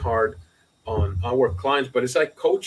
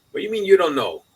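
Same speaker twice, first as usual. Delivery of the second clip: high, raised disbelief; incredulous; 7 semitones higher, 4 dB louder than usual. Retold or imitated. Accountant retelling his stunned question to a client, incredulous and higher. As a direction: demand it in disbelief.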